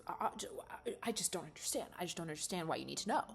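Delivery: fast, flustered, defensive protest. Acted. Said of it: "getting really defensive".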